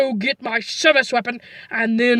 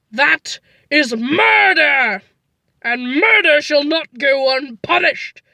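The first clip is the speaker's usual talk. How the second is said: slow melodramatic vow; slower than usual. Acted. Melodramatic declaration of vengeance.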